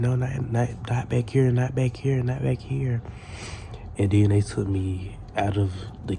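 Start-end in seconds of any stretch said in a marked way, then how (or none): 0.0-3.0 imitated staff protest. Voices staff objecting in kitchen.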